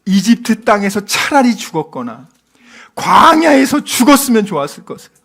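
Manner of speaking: building grumble of the crowd; resentful lament. Acted. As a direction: wail bitterly in mock grievance. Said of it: "원망한 다음에 뭐래요".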